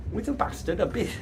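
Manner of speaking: trailing off mid-slip; a quiet stumble over the word; fumbled self-correction. Real, not acted. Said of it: "It's some Victorian bastard with a beard".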